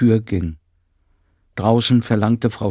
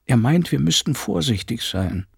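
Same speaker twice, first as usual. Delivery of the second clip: higher voice of a worried housekeeper; housekeeper confiding; 5 semitones higher than usual. Acted. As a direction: explain it carefully, in confidence. Frau Penck explains her husband.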